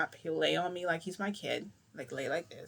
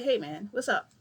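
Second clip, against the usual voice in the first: casual; 4 semitones higher, 4 dB louder than usual. Shown as a demonstration. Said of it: "just talk to him like that".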